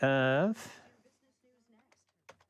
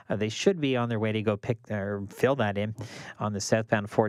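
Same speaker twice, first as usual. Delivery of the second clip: brisk radio traffic read; traffic report read; 2 semitones lower than usual. Acted.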